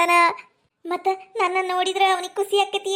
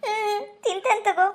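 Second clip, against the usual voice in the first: tearful; 3 semitones higher, 3 dB quieter than usual. Acted. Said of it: "ಅವ್ ಕಣ್ಣೀರ್ ಒರೆಸ್ಕ".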